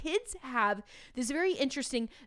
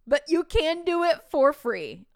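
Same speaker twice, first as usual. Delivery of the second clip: bright, loud push on free; upbeat pitch to fellow teachers; excited; 6 semitones higher, 9 dB louder than usual. Real, not acted. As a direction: sell it with a burst of energy.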